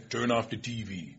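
slow, low West Indian patois; mock West Indian father's command; dad's West Indian accent. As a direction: imitate a West Indian dad giving orders, softly and slowly. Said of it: "In that accent".

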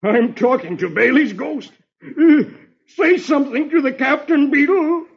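high, loud, panicky pleading; frantic sergeant. Acted. Sergeant begging Bailey's ghost to answer, high frantic voice.

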